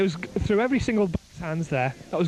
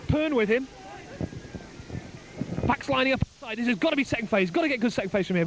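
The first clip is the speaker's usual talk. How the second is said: excited commentary; 5 semitones higher than usual. Real, not acted. Commentator calling a breakaway to listeners, excited and rising. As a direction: pitch climbing as the break unfolds, rapid-fire names.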